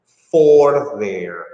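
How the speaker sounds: for said low and stressed; teacher shows the time word, stressed for; for there as time. Shown as a demonstration. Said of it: "When it's about time, you say".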